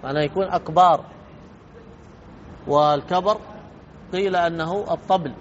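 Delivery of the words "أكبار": أكبار with a long "aa" after the b; stretched ba. Shown as a demonstration. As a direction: say "akbaar", lengthening the second vowel of أكبار. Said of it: "يمد الباء". (مد باء "أكبار")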